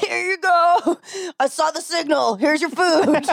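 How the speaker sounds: high-pitched, hammed-up superhero voice; mock Batman. Joining in the Batman food delivery bit, mock heroic voice. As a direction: play the hero announcing a delivery.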